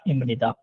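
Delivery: इम निदा said with m in इम; spoken form इम निदा, m not b; correct reading. Shown as a demonstration. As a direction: model इम निदा with nasal m. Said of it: "पढ़ने में होगा".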